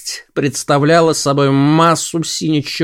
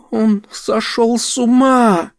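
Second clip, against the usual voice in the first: alarmed cry; 10 semitones higher, slower than usual. Acted. Dorothea cries out in alarm.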